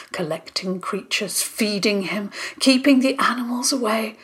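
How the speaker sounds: put-on a frail old creature pleading; hoarse old Brindlebore. Old Brindlebore begs Theo to take him, hoarse whisper. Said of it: "A hoarse voice came from the shadows".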